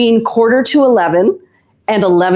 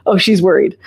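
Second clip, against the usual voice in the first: whispered aside; 2 semitones lower than usual. Real, not acted. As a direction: whisper it to the viewers. Whispered aside about Mira.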